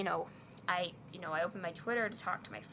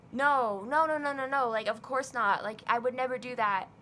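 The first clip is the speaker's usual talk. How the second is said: frantic denial; 5 semitones higher, 5 dB louder than usual. Retold or imitated. Retold frantic backpedalling denial.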